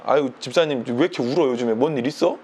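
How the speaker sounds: low, lightly voiced concerned pastor. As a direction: gently imitate a pastor checking on a member. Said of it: "그 나중에 목사님이". (낮게 살짝 흉내 낸 목사님 말투)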